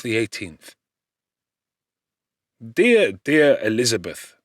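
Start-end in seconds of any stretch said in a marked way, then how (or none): 2.6-4.4 a loud, rising cry of relief at her letter; exclaimed. Acted. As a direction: call out her name, overcome. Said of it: "I exclaimed".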